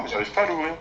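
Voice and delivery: strained effort, pushing hard; straining to open box. Real, not acted. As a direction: struggle with a stuck lid. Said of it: "Je n'arrive pas ... je fais des efforts".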